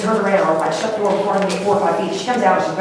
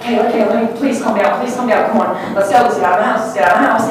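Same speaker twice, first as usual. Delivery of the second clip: retold pleading; 4 semitones higher, 5 dB louder than usual.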